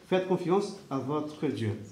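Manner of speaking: tender sincere encouragement; soft sincere. Shown as a demonstration. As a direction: gently urge them to trust. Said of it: "repeated phrase, softer take".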